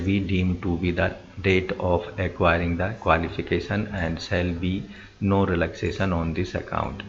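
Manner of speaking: slow, word-by-word reading of the notice; slow reading aloud. Acted. Reading the job advert slowly for viewers. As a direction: read the official wording out slowly, x0.5.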